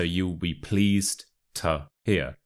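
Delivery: "to" reduced to a short tuh; weak "to". Shown as a demonstration. Teacher models the expression for learners, "to" weakened to tuh. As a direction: say "to" as an unstressed tuh before "hear". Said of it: "And the to becomes a t".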